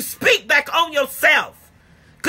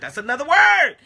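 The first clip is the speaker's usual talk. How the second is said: emphatic; 2 semitones higher than usual. Shown as a demonstration. Preacher declaring to the congregation, emphatic. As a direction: proclaim it to the room.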